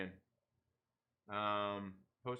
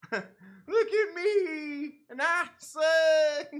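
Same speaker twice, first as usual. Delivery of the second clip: laughing mock voice; 10 semitones higher, 6 dB louder, much slower than usual. Mocking the troll after impression.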